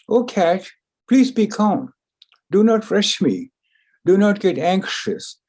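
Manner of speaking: calming. Acted. Mouse calming the anxious cat.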